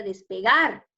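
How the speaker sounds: "despegar" with the final GAR stretched and firm; stress on GAR. Shown as a demonstration. Teacher giving pupils the correction, stress on GAR in "despegar". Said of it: "sería en la arar".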